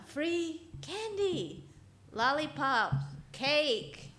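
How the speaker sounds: high, slow, sing-song lure of a creepy stranger; weird creepy voice. Acted. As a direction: drag it out sweetly, like bait for children. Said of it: "It's kind of a weird, creepy voice".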